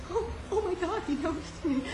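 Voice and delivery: giddy schoolgirl thrill, laughing. Retold or imitated. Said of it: "And I was just".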